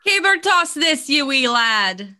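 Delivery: slow, hammed-up Scottish brogue on the beer name; Scottish accent. Shown as a demonstration. Cohost finishing the beer name in a Scottish accent. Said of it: "do that in a Scottish accent".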